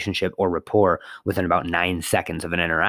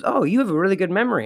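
surprised cashier; 10 semitones higher, faster than usual. Retold or imitated. Randy's surprised reply.

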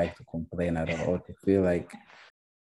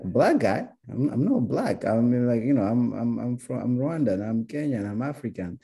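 higher and louder, indignant; indignant protest; 5 semitones higher, 4 dB louder than usual. Retold or imitated. Correcting people who called him black, indignant and louder. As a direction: protest the label, offended and loud. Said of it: "you'd be like".

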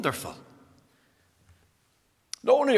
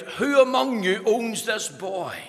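raised, slowed-down call across a tent; mild call to the crowd; 5 semitones higher than usual. Retold or imitated. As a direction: lightly act out calling to the whole crowd. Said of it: "he cried out".

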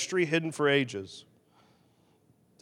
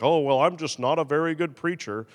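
lightly acted self-deprecating shrug; a hint of fake modest preacher; mock false humility; 2 semitones lower than usual. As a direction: play at being humble, not meaning it. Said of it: "not some false humility of like".

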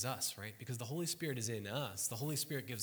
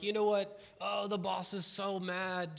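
worried coworkers; 8 semitones higher, 6 dB louder than usual. Retold or imitated. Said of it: "they're like".

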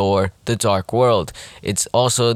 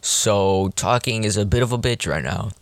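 talking through sore braces; sore mouth from braces. Real, not acted. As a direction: sore teeth, careful speech. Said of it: "I recently had my braces retightened".

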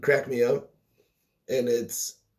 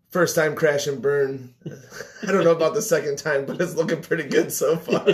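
grin through your own retold line; laughing quote; 2 semitones higher, 3 dB louder than usual. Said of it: "my response was".

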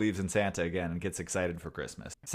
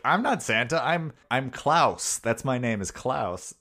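mock insisting; 4 semitones higher, 4 dB louder, slower than usual. Santa in disguise insisting.

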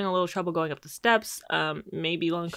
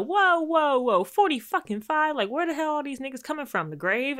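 shocked disbelief; 9 semitones higher than usual. Retold or imitated. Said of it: "Cliff was like".

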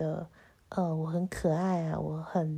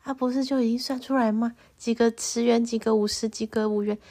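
confused whiny protest. Retold or imitated. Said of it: "我就想说".

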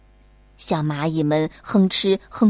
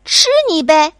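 ants in unison; 6 semitones higher, 7 dB louder than usual. Acted. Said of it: "小蚂蚁们异口同声地回答".

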